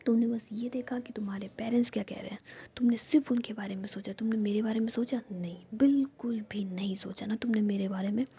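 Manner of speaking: a hurt friend's whispered reproach, rising; whispered anger. Acted. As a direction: scold her hotly but never leave the whisper. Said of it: "और तुम मुझ पे गुस्सा कर रही हो".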